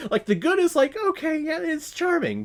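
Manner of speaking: high-pitched talk through real laughter; laughing. Real, not acted. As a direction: squeeze the words out while cracking up. Laughing through a mocking verdict.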